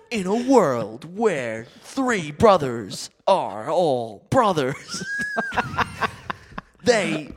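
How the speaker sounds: mock movie trailer voice. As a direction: ham up a blockbuster voiceover.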